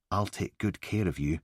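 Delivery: a touch of soft, sinister killer; lightly voiced menacing calm; creepy soothing. Killer on the recording speaking softly to the victim, sinister.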